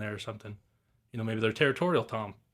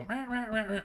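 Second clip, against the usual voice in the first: hen cadence imitation; 11 semitones higher than usual. Hunter explaining the hen's long cadence to a buddy, in a high hen call. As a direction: call it out high like a hen gathering her flock. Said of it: "where they just go".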